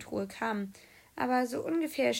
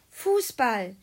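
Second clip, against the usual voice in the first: loud outburst on one word; sudden loud exclamation; crazed shout; 2 semitones higher, 7 dB louder than usual. A narrator's reading. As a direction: cry it out as if fear-crazed. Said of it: "schrie, äh, Timo mit einer Stimme".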